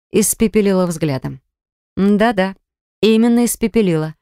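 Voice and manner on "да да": ordinary delivery, nothing marked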